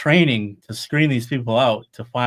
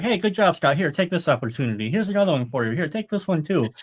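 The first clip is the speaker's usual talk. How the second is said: higher, lightly voiced cheerful universe handing out praise; the world voice; 5 semitones higher than usual. The world rewarding him for getting it done, a lightly voiced cheerful higher voice. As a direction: play the world patting him on the back, brighter and higher. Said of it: "the energy of the world was like".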